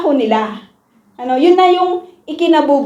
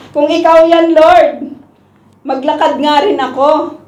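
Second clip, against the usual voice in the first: eager, louder call out to the Lord; Peter's eager call; 4 semitones higher, 5 dB louder than usual. Retold or imitated. Peter calling to Jesus across the water, eager and loud. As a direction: voice Peter daring to join on the water. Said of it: "sabi niya".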